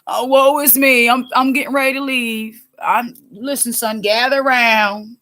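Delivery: a mildly hammed-up dying father, woe is me; dramatic old father. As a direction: play the father's weary farewell, lightly acted. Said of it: "he's in his act".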